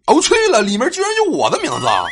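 high, loud, rushed amazement; excited. Acted. Student hears own name among the nominees, excited high outburst. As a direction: blurt it out in hammed-up thrilled disbelief. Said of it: "我按耐着激动的心情".

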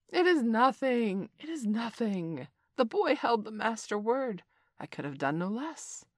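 high bird voice; a lightly voiced bird; kite voice. A narrator's reading.

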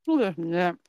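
talking while crunching a cracker; crunching rice crackers. Real, not acted. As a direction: mouth full of crunchy cracker. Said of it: "バリバリしながらさ".

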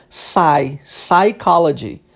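"psychology" slowly, starting on an S sound, "sai"; silent P. Shown as a demonstration. Teacher showing the English word, slow with silent P. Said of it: "mas não é pronunciado".

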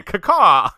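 big, high, loud mock caw; raven caw. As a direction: let out a falling raven squawk. Final raven cry in hashtag.

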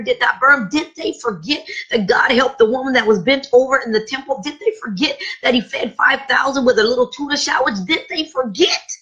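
rhythmic, rising preacher cadence; congregation-rousing sermon roll; building preaching litany. Acted. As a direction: hammer each "did they forget". Litany of rhetorical questions.

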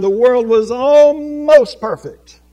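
slow loud climax. Real, not acted. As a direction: hammer the irony home, slowly. Sermon climax, ironic.

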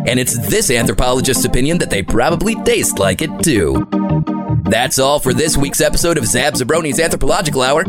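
put-on old documentary narrator recording. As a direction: play it like a vintage science reel. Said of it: "access an old recording".

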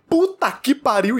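drawn-out, high-pitched retold curse; palavrão sonoro de dor. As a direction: re-enact a pained swear, stretching it out slowly. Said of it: "eu só tenho um sonoro". (palavrão esticado e agudo, imitando dor)

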